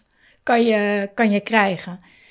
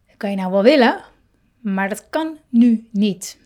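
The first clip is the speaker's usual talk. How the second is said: a mild stern parent; stern dismissal; 4 dB louder than usual. Retold or imitated. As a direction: shut the wish down flatly. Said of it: "op zo'n toon".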